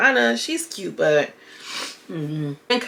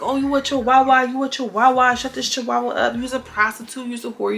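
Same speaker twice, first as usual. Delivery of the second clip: higher-pitched imitated insult banter; retold name-calling in a raised pitch; mock taunting; 5 semitones higher than usual. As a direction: taunt like you're re-enacting a catfight. Retelling a trade of insults.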